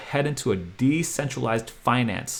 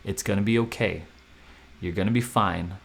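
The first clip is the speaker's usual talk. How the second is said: soothing reassurance; 4 semitones lower, 3 dB quieter than usual. Real, not acted. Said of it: "sweet sounds of my supple voice".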